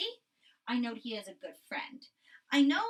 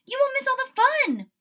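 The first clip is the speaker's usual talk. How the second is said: urgent whisper; 11 dB louder than usual. A narrator's reading. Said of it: "cried Frog".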